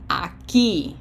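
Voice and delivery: "Aquí" with the stress on the final "quí"; stress on accented syllable. Shown as a demonstration. Teacher shows graphic accent, "Aquí" stressed on "quí". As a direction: lean on the last syllable of "Aquí". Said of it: "Graphic accent".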